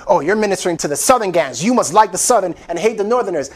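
low, hurried accusing voice; quick, low-pitched mock objection; imagined accuser. Voicing an accuser of his ministry.

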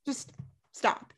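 exasperated whispered just stop; weary hushed just stop; whispered plea. Real, not acted. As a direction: whisper it, worn out. Rant ends, fed up.

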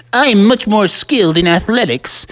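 lightly put-on boastful character voice; Smee. Smee proposing a different game, lightly voiced boasting. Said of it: "Smee said it in his voice".

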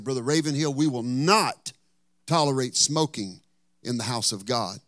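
retold pastor's firm protest; indignant objection. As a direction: imitate an outraged pastor laying down the rule.

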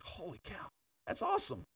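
a jump way up in pitch, amazed; excited. Retold or imitated. Pastor reliving the man's healed back, high excited exclaim. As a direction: retell the thrill of the healing. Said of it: "And I was so excited".

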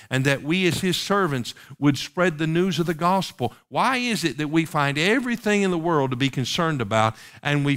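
insistent, rolling pulpit questions; impassioned preaching. Real, not acted. Preacher challenging the church about its indifference, impassioned preaching. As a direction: press each repeated question on the congregation.

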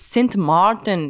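Saint Martin said as Dutch Sint Maarten; Dutch pronunciation. Shown as a demonstration. Wife telling husband the Dutch do say it, Dutch accent. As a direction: give the name a Dutch accent. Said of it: "in the Dutch".

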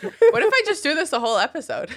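put-on high, childish baby voice; baby talk. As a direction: coo it like a toddler. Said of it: "talk in baby talk".

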